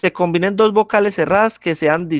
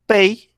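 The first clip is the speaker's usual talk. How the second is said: "pei" held long and raised, as one syllable; slow, higher "pei" with the vowels glided together; isolated syllable; 6 semitones higher, 4 dB louder than usual. Shown as a demonstration. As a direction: stretch out pei on its own, higher. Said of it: "mire que está formando como tal el diptongo".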